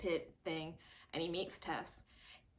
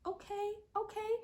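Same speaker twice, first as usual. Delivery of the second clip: impressed ooh. Real, not acted. Reacting to the monster reveal.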